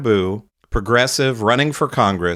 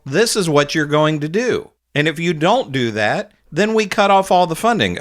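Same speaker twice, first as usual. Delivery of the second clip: firm demand; 6 semitones higher than usual. Pretend. Imagined demand to Israel.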